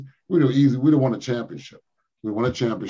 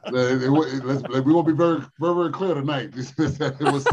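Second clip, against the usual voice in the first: laughing; 2 semitones higher than usual. Real, not acted. Laughing through a slipped answer.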